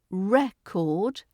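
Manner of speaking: record stressed on REC, as REK-ord; first-syllable stress. Shown as a demonstration. Teacher demonstrating the noun, record stressed on REC. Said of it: "the noun".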